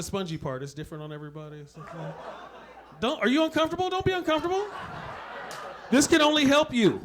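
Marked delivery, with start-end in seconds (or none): 3.0-7.0 hyped coaching. Acted.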